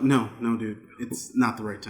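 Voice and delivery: low, soft mock warning; discreet aside. Pretending to tap the chanter on the shoulder, discreet. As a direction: gently talk someone down. Voicing a quiet discreet word.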